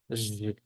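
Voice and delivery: Zh as a buzzing hushing sound; voiced zh sound. Shown as a demonstration. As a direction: buzz Zh like French "j". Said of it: "Se pronuncia".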